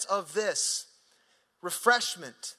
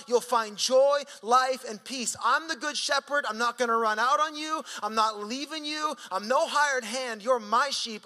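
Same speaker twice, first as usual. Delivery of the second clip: raised, fervent preaching voice as Jesus; Jesus speaking, preached; 2 semitones higher than usual. Acted. Preacher voicing Jesus to the congregation, fervent and raised. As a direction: proclaim it like Jesus promising his sheep. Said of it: "He's saying".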